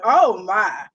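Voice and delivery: slow, playful Southern accent. Shown as a demonstration. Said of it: "in my Southern accent".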